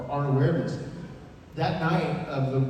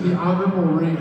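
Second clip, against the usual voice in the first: raised-pitch mock boss voice; Vince McMahon; 4 semitones higher than usual. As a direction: lightly imitate an indignant boss. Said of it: "That was Vince McMahon who just called me".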